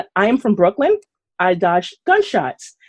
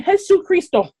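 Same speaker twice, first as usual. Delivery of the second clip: mock scream; 10 semitones higher than usual.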